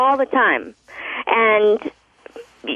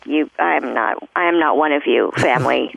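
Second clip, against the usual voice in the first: dry delivery; 5 semitones lower than usual. Retold or imitated. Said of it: "dry delivery".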